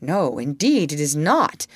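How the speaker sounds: "not" stressed with indignant weight; emphatic. A narrator's reading. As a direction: lean hard on "not". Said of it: "with frightful emphasis".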